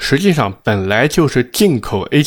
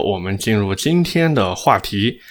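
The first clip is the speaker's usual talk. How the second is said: ordinary talk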